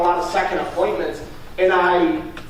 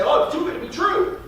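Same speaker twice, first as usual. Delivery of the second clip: higher, lightly mocking doubter voice; mock skeptical client; 8 semitones higher than usual. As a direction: poke fun at the doubting customer's line. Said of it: "they like to always say".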